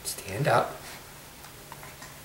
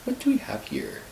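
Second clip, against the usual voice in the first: whispering; 3 semitones lower, 5 dB quieter than usual. Real, not acted. Whispering to baby.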